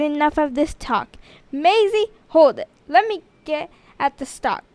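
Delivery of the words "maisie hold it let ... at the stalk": a louder, no-nonsense teacher's order; brisk teacher. Acted. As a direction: grab hold briskly, teacher in charge.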